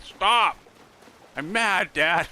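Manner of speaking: high, loud mock-angry kid; imitating angry daughter. Daughter yelling at her dad, high loud mock anger. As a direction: play the little girl stamping her foot. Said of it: "They'd be like".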